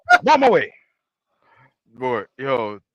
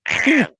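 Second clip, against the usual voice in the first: Cartman scream; 7 semitones higher than usual. Retold or imitated. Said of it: "That screaming sounds like Cartman".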